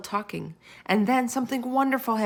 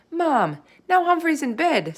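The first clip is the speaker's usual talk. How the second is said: high, louder slow call; yelled; 8 semitones higher, 5 dB louder than usual. A narrator's reading. Girl yelling through the doorway to her mom. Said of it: "Sophie yelled through the doorway".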